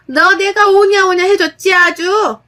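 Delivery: high, loud rebuke; mother-in-law yelling at daughter-in-law about respect; angry scolding. Acted. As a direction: tear into her for disrespect.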